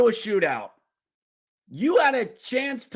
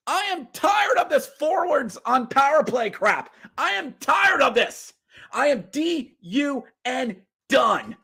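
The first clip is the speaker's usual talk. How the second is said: fed up rant; 5 semitones higher than usual. Real, not acted. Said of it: "Am I yelling?".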